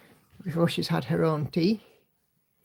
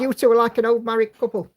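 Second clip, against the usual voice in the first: louder and faster, for someone who didn't hear; repeated louder; 3 semitones higher, 4 dB louder, faster than usual. Real, not acted.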